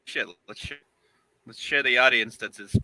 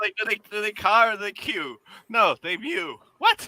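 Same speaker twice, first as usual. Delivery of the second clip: incredulous; 9 semitones higher, 4 dB louder than usual. Real, not acted. Disbelief at seagulls mewing.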